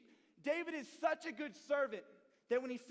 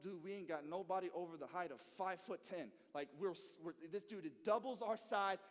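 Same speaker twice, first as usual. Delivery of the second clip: scared murmur; 5 semitones lower than usual. Retold or imitated. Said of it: "the Israelites are like".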